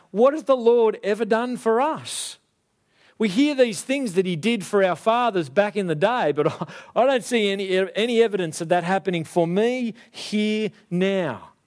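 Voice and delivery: mildly defiant challenge; defiant, arrogant. Acted. Gideon questions what the Lord has done, mildly defiant. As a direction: voice a touch of arrogant complaint. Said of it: "There's arrogance in him. There's defiance".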